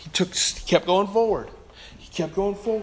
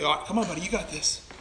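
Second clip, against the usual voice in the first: much softer, coaxing encouragement; gentle coaxing parent; 12 dB quieter, faster than usual. Retold or imitated. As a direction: softly urge the toddler on. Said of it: "You were holding your kid".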